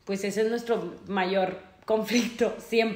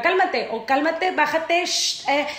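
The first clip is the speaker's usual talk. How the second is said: higher mock "calm down"; nagging higher-pitched hush, mimicked; imitating calm-down shushing; 4 semitones higher, slower than usual. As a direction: imitate someone shushing you down. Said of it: "me pone muy mal que me diga".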